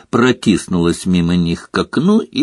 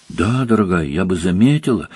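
patient; 3 semitones lower than usual. Acted. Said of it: "терпеливо ответила миссис Уизли".

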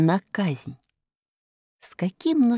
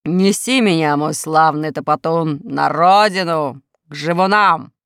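commanding; 4 dB louder than usual. Acted. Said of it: "приказал он".

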